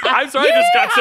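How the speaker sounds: giggling apology; laughing. Real, not acted. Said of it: "A yeehaw crept into my voice".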